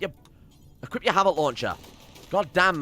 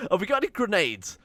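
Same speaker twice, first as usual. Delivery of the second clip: laughing; 10 semitones higher than usual. Real, not acted. Desperate, out of options.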